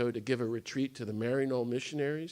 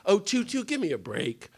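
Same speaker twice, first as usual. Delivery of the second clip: smart-aleck teasing; 6 semitones higher than usual. Retold or imitated. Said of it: "I said, smart aleck".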